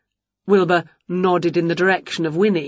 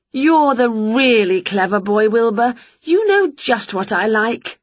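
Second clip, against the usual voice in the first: slightly higher, pleased praise; appreciative Winnie; 4 semitones higher than usual. Acted. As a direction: praise your cat in a higher character voice.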